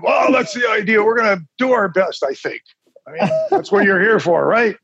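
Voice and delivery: a mock Scottish doctor, half laughing; Scottish accent. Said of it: "in a very thick Scottish accent".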